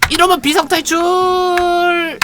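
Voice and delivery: slow, high announcer-like shout of 비상탈출; drawn-out skill call. Real, not acted. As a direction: stretch the skill name out grandly. Calling out escape skill. (느리게 길게 외치는 비상탈출)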